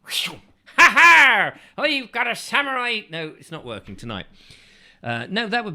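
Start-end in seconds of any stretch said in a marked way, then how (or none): 0.1-3.0 one more try at a cartoon Japanese samurai; mock Japanese accent. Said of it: "let me try one more time".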